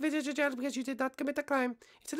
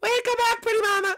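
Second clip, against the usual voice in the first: flirty greeting; 7 semitones higher, 6 dB louder than usual. Acted.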